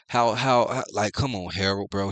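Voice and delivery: how how, can't believe this guy; incredulous outburst. Real, not acted. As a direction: throw up your hands at him. Disbelief at Harold's cluelessness.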